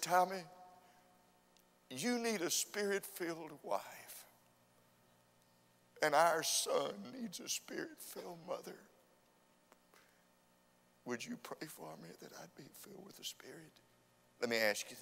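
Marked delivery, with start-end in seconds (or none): 0.0-8.8 wife's pleading. Retold or imitated. Wife answers husband at the altar. 11.1-13.7 breathy whispered request, barely voiced; whispered plea. Wife whispers her plea to her husband at the altar, hushed and pleading.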